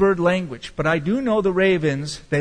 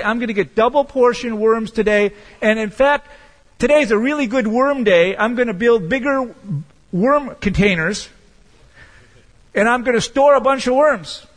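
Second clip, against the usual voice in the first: greedy raven; 6 semitones higher, 5 dB louder than usual. Pretend. Voicing a greedy hoarding raven.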